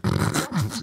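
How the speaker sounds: imitated private giggling, soft; stifled giggle. Boy giggling to himself beside grandfather, imitated soft giggle. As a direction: giggle softly to yourself. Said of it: "I'm over here just giggling".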